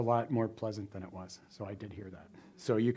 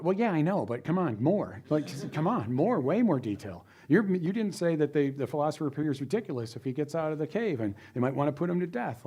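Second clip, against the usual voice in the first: swooping, incredulous demands for more; exasperated prodding; 3 semitones higher than usual. Acted. Teacher acting out prodding AI for more detail, exasperated. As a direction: push for more with big pitch swings. Acted scolding of a thin answer.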